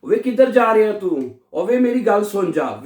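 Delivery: slow, calling वे like a Punjabi street call. Shown as a demonstration. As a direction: call someone over, Punjabi style. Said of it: "वे पंजाबी की तरह बिल्कुल". (पंजाबी अंदाज़ में पुकारना)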